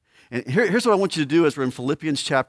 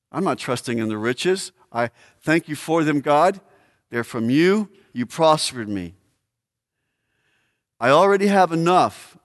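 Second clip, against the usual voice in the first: a grateful man offering all to God; earnest prayer; 4 semitones higher, 4 dB louder than usual. Acted. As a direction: pray it with open hands. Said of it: "One commentator says, he could have said".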